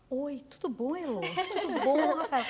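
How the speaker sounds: mimicked everyday hello in an announcer's tune; imitated presenter intonation. Host imagining the journalist greeting friends, imitated presenter intonation. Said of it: "você fala".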